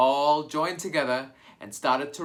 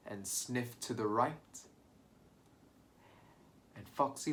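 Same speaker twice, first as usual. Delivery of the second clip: hushed storytelling; 4 dB quieter than usual. Acted. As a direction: draw them in with a hushed voice. Sly hushed fox introduction.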